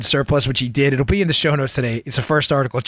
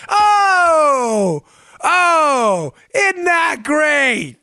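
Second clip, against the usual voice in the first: high, drawn-out sarcastic crowing; loud sarcastic exclamation; mock delight; 13 semitones higher, 4 dB louder, much slower than usual. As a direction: stretch it out in gloating mock amazement. Mock delight at damning quote.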